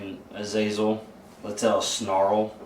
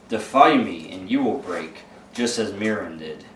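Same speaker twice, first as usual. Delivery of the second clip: demonic voice. Acted. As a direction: speak as the demon inside him, lightly voiced. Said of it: "it's like that demonic voice".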